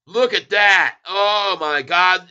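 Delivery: excited wonder. Real, not acted. Stock keeps rising.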